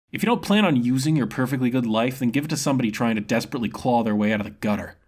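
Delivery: hard-bitten survivor chewing him out; tough street-wise woman. Acted. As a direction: scold him for wasting his life. Karana lectures him.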